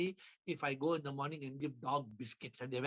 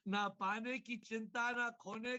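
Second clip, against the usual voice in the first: fast, light repeat of the couplet; brisk teasing echo; quick echo; 4 semitones higher, much faster than usual. Retold or imitated. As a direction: rattle the couplet back quickly.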